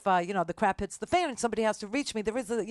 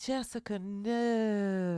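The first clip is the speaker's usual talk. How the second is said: mock scolding; 3 dB quieter, much slower than usual. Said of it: "what I would say to you".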